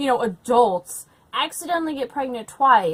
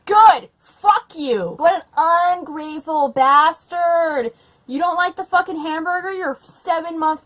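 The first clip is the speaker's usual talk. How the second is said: loud, scornful yell at the character; shouting at the book's husband; angry rant; 5 semitones higher, 8 dB louder than usual. Real, not acted. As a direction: tell him off with full outrage. Ranting at a fictional husband.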